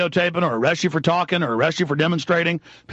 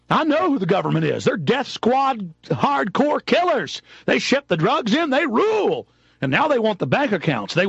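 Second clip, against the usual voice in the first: angry; 4 semitones higher than usual. Real, not acted. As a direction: spit out each accusation. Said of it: "I'm angry".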